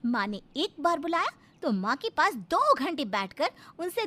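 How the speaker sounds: sarcastic, swooping litany of complaints; nagging wife. Acted. Wife to husband about his mother and friends, nagging. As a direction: nag him, point by point. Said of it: "फिर प्रीति का भजन शुरू".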